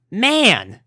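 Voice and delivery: high, loud pleased exclamation; exclaiming. A narrator's reading. Rainbow sinking into warm hay, pleased exclamation. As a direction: let it burst out happily. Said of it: "she exclaimed".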